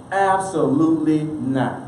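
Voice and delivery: slow, drawn-out refusal without shouting; mock outraged refusal. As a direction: imitate indignant experts, word by word. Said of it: "they scream bloody murder".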